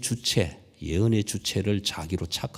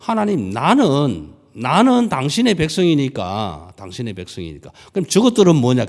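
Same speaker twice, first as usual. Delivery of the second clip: indignant complaint; 3 semitones higher, 6 dB louder than usual. Acted. Preacher voices Jonah's complaint to God.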